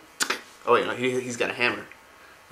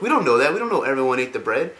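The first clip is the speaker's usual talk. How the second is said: retold protest; 3 semitones higher, 5 dB louder than usual. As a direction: push back, mock-indignant. Jaina objects in retold quarrel.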